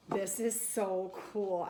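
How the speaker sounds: sharp gasp, then slow, hushed awe; delighted gasp, slowed down. Real, not acted. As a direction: gasp as if you just spotted a treasure. First sight of item in kit.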